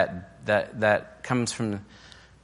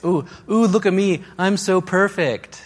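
much higher, prissy mocking singsong; 9 semitones higher, 4 dB louder than usual. Spouse mocking partner as a know-it-all, high mocking voice. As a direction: mimic the spouse as a smug show-off. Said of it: "You're such a ditz".

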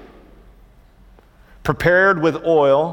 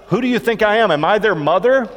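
pitched up, indignant protest to God; exasperated Moses; 7 semitones higher than usual. Retold or imitated. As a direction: throw up your hands at God. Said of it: "he begins to say to God".

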